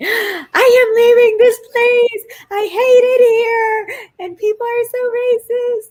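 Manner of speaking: sobbing, very high and tearful crying. Retelling a crying phone call to a husband after being insulted: imitating own past crying. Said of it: "I called my husband crying".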